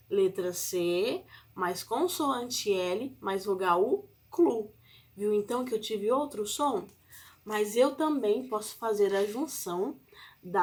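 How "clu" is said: Clu said clearly; syllable demo. Shown as a demonstration. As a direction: sound out Clu for kids. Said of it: "eu vou ter outro som".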